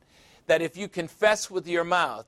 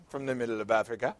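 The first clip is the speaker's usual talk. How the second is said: a woman's voice; 4 semitones lower, 5 dB quieter, much faster than usual. Retold or imitated. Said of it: "Where are you from?".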